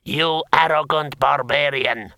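slow, emphatic outrage; drawn-out angry accusation; indignant insult. A narrator's reading. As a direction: spit the insult out word by word. Scowling lord insults the hero.

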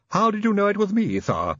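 high-pitched servant voice; Igor. Acted.

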